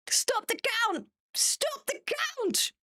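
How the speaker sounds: gasped, drawn-out high squeal; mock stop the count. Streamer mocking a losing score with a slow high squeal. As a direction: wail it slowly like a sore loser. Mock election meme cry.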